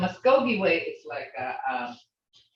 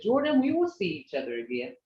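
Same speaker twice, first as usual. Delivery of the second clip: fast English goodbye with a doubtful rise; questioning; 4 dB quieter, faster than usual. Shown as a demonstration. Teacher showing English sounds unsure to Jordan. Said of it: "there's a question".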